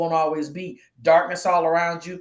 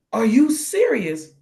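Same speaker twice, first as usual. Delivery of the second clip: higher, drawn-out incredulous question; blown-away disbelief; 4 semitones higher, 4 dB louder, slower than usual. Retold or imitated. Acquaintance reacting to her confession, incredulous. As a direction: stretch it out in imitated astonishment. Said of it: "they were blown away".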